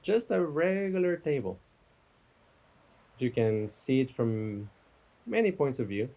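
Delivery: unhurried meditation guide, long pauses; guided meditation. Real, not acted. Teacher guiding listeners from table to campfire, guided meditation. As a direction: give each image room to settle. Leads a guided imagery exercise.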